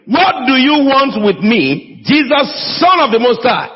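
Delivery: high, slow retelling of a demon's cry; preacher quoting the demon with a mild mock shout; retold demon's shout. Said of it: "the demon shouted at the top of his voice".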